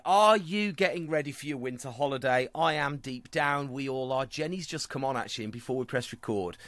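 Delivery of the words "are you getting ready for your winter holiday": announcer voice. Acted. Host grandly introducing the news to listeners like an announcer. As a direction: boom it out like a compère opening the show.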